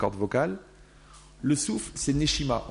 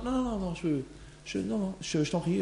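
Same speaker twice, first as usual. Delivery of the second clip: mock refusal; 5 semitones higher, 5 dB quieter than usual. Person refusing to look.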